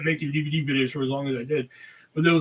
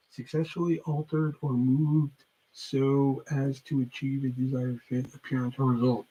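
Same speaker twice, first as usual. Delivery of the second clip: slow, quiet reading of a definition; reading aloud; 2 semitones lower, 6 dB quieter, slower than usual. Real, not acted. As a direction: read it out slowly and softly, like a dictionary entry. Reads out a definition.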